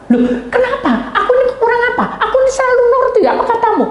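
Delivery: high, worked-up mock protest; dissatisfied protest. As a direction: imitate someone hotly demanding to know why. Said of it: "Dia ndak puas". (protes tak puas, bernada tinggi)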